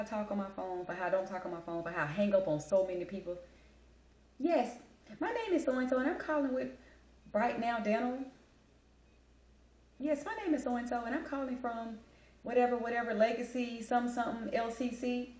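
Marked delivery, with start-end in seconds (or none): 4.4-8.2 high-pitched telemarketer introduction; imitated cold caller. Caller introducing a dental company, mock telemarketer voice. Acting out an unwanted sales caller. 10.0-15.3 high-pitched telemarketer introduction; imitated cold caller. Caller introducing a dental company, mock telemarketer voice. Acting out another unwanted caller.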